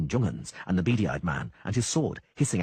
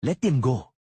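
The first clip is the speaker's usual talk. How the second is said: snarling; 6 semitones higher, 6 dB louder than usual. A narrator's reading. Jung-An snarling.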